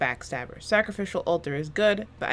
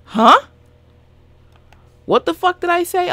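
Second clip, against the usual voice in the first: high and loud, caught off guard; startled disbelief; 12 semitones higher, 12 dB louder than usual. Real, not acted. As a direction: blurt it out, baffled at herself. Loses her train of thought.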